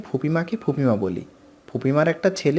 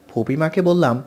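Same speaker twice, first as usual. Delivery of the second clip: usual speaking voice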